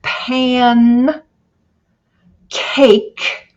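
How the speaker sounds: "pan cake" with a pause between the two parts; split syllables. Shown as a demonstration. Teacher showing students the syllables, slow and split. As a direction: slowly separate "pan" from "cake". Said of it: "we have two closed syllables".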